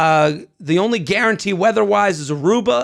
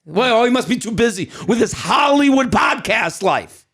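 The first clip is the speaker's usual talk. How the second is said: mocking, gossipy old Jewish woman; 2 semitones higher than usual. Conscience mocking his busy podcast life, as an old Jewish woman. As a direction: sneer like a judgmental old aunt. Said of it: "I'm the fucking Jewish woman".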